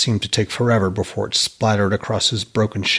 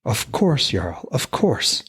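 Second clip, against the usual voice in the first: delighted; 2 semitones higher, slower than usual. Acted. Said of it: "delight shining in his voice".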